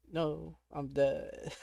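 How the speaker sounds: very slow, soft no, I'm dead; resigned despair. Real, not acted. Player resigned to being eaten by the cat, slow and soft. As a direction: drag it out, beaten and defeated. Accepting doom in game.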